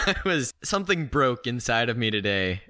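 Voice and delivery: amused, laughing through the words; happy, laughing. Real, not acted. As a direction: confess it while failing to hold back giggles. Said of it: "Why do you sound so happy?".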